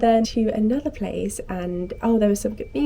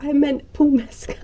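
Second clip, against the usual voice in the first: mock exasperation; 6 semitones higher than usual. Friend's exasperated correction, acted.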